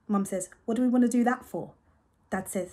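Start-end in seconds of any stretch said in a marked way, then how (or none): 0.6-1.7 a bit higher and louder, doubtful; skeptical question. Acted. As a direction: ask it doubting. Mum questioning Dad.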